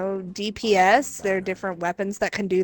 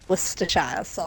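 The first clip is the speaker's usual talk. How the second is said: posh pronunciation of "Worcestershire", ending in shire; 3 semitones lower, 4 dB quieter than usual. Shown as a demonstration. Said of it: "I'm being posh".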